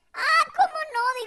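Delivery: sugary high teacher voice, slow; maestra empalagosa. Retold or imitated. Maestra acepta con gusto. (maestra melosa y lenta)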